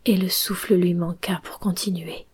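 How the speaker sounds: soft, fading storyteller; hushed story narration. A narrator's reading. Narrator tells how Pinocchio loses breath, hushed narration. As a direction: let the tale die away quietly.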